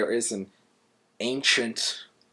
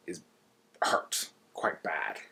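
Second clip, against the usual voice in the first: slow hushed whisper on the injury; whispered, dragging each word; 4 semitones lower, 6 dB quieter, slower than usual. Acted. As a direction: drop to a breathy whisper, drawn out. Telling the hedgehog's painful fall.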